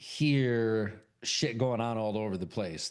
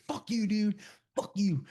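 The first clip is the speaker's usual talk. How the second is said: acted indignant cursing, pitched high; high-pitched mock outrage; 9 semitones higher than usual. The speaker accusing his friends of a prank, mock outrage.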